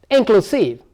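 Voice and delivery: "inclusive" held up, then falling on the last syllable; stress demonstration. Shown as a demonstration. Teacher says you can practice, stress drill on "inclusive". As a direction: model "inclusive" distinctly, pitch dropping at the end. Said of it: "The stress lies on here now".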